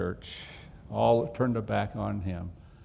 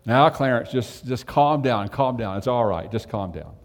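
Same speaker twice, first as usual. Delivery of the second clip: soothing; 5 dB louder than usual. Retold or imitated. Brothers calming an angry Clarence in his man cave, soothing. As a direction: settle him down gently.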